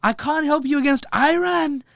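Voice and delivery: high, loud, hammed-up American impression; Trump. President refuses to help his ally, loud high caricature. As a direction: belt out a refusal in a mock presidential voice. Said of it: "And Trump was like".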